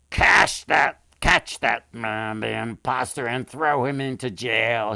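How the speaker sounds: loud angry royal command, the first words loudest; furious king. A narrator's reading. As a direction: bark the order at the guards. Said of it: "so furious".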